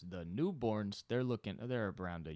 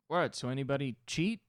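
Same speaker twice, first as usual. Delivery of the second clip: provocative shout; 6 semitones higher, 7 dB louder than usual. Retold or imitated. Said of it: "you just wanna just be like".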